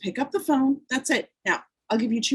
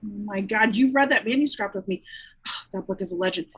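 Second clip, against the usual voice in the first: mildly excited recognition; a touch of delighted recall; understated excitement over a shared memory; 2 semitones lower than usual. Acted. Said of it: "Margaret gets excited".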